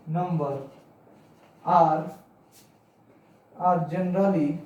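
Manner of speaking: slow, word by word, for the class to write down; slow dictation. Shown as a demonstration. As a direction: dictate each phrase slowly and repeat it. Dictating next definition slowly. (बच्चों को लिखवाते हुए धीरे-धीरे बोलना)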